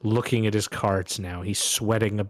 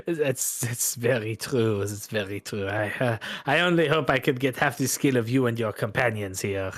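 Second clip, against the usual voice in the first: humbled Bretonnian loser; French-accented gambler. Acted. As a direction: agree ruefully in a French accent.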